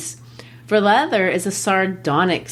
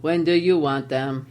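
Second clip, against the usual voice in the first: put-on German-accented shoemaker admiring the leather; broken German English; 2 semitones lower than usual. Teacher voicing Gessler in broken German English. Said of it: "I'll practice my broken German English".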